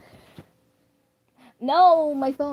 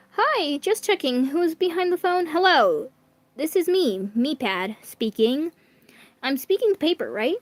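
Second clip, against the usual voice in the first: robot voice; 4 semitones higher than usual. Acted. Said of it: "slightly robotic voice of MePad".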